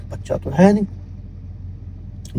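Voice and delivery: slow, breathless whisper; hushed whisper. A narrator's reading. Mother realizes her son is gone, slow whisper. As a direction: whisper it slowly, as if dread is sinking in. Mother finds child missing.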